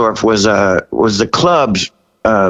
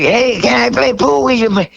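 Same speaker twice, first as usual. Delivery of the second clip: much higher rock-singer rasp; 11 semitones higher than usual. Retold or imitated. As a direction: imitate the singer asking to play pool. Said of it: "So he's like".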